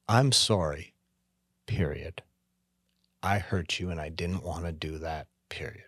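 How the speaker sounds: gentle model apology dropping to a near whisper; sincere apology. Shown as a demonstration. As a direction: say it simply and let it sit. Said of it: "model apology".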